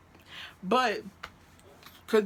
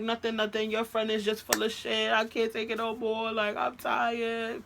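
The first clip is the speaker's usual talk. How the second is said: higher, drawn-out mock whining; crying, hysterical; 4 semitones higher than usual. Girlfriend complaining to his friend Chico, mock crying. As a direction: imitate a worn-out, weepy complaint. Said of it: "crying, hysterical".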